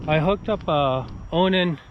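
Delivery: breathless after a hike; out of breath. Real, not acted. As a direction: talk between breaths. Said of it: "Sorry, I'm out of breath".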